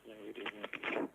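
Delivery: caller on a phone line; thin phone-line voice; over the phone. Real, not acted. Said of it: "Can you speak into your phone?".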